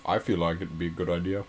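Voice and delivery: toned-down mock British accent; lightly voiced British mascot; Stuart. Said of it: "Can you do a British accent?".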